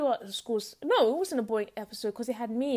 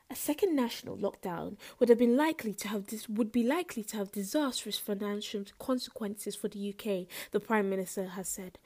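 smooth, softer radio news read; 2 semitones lower, 5 dB quieter than usual. Pretend. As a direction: read it like a late-night radio host. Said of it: "let me do it in my smooth radio voice".

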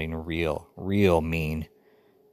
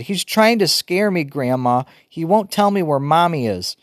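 boo-hooing; 8 semitones higher, 4 dB louder than usual. A narrator's reading. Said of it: "kept boo-hooing".

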